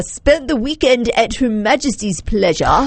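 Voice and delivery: amateur British accent; lightly mock-British delivery; attempted British accent. Shown as a demonstration. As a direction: read it out as a would-be Brit. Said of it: "say these all with a British accent".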